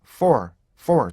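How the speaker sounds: for shortened to two parts; quick two-beat for; for read quickly. Shown as a demonstration. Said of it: "빨리 읽으면은요".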